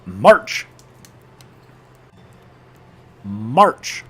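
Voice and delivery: short, loud "March" with rising pitch; barked command. Real, not acted. Player giving a voice command to troops, barked order.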